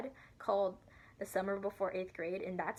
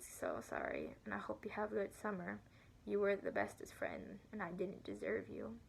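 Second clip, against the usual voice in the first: retold tearful goodbye; 4 dB quieter than usual. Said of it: "and she was crying".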